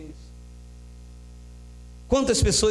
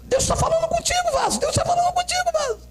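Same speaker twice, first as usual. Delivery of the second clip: quick, very high falsetto mimicry; mock nudging bystander; faster than usual. Nudger telling someone God is speaking, mock falsetto. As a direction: parody an excited churchgoer in falsetto. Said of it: "o que cutucou falou assim".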